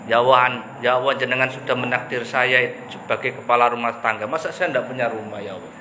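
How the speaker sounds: a mild demanding plea to God, fading to a murmur; half-joking complaint in a retold prayer; threatening prayer. Preacher imitating his own complaining prayer to God, lightly demanding. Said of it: "doa yang mengancam ini".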